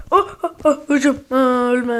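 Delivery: loud frantic yells; excited shouting. Real, not acted. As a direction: shout in the heat of battle. Frantic firefight in game.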